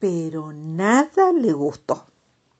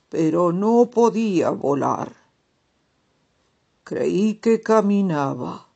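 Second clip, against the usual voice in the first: slow, louder dreamy toad; storybook toad voice; 3 dB louder than usual. Acted. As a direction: tell the dream slowly, savoring it.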